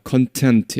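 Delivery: content with stress on the second syllable, con-TENT; stress on the end. Shown as a demonstration. Teacher showing content as adjective, con-TENT. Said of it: "이때 강세는 뒤에 있습니다".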